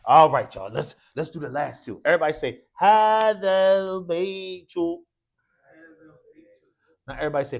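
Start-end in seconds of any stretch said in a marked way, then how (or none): 2.0-4.7 loud classroom model for repetition; loud teacher leading a chant-back drill; calling out a drill. Shown as a demonstration. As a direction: project it for the class to repeat.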